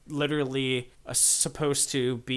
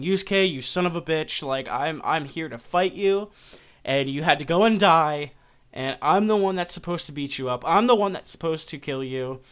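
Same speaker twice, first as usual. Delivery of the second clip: louder, raised-pitch acted tirade; retold outrage, punching the key words; angry rant; 3 semitones higher, 6 dB louder than usual. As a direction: hurl accusations at a rival. Rival storms wake, rants.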